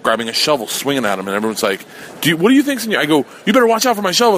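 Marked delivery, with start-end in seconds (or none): 2.2-3.0 mocking crowd. Crowd mocking his swing. 3.4-4.4 mock threat. Swinging a shovel at him.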